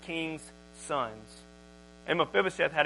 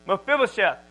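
loud, sharp call across the room; hollering a name; 3 semitones higher, 5 dB louder than usual. Acted. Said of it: "So he's hollering at this boy".

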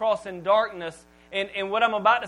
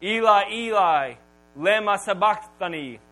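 loud cry; 5 dB louder than usual. Acted. Preacher voicing Jesus crying out from the cross, moderately loud. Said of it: "he cries out in a loud voice".

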